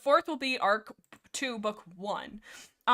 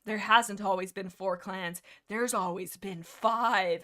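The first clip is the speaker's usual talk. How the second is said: dramatic reveal; 2 semitones lower, slower than usual. Retold or imitated. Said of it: "mic drop of StarClan's like".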